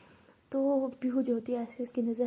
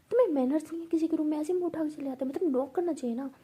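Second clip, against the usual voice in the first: quick, higher-pitched telling-off; raised-voice scolding; 4 semitones higher, 4 dB louder, faster than usual. Acted. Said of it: "इतना चिल्लाने की क्या जरूरत है". (चिल्ला कर डाँटते हुए)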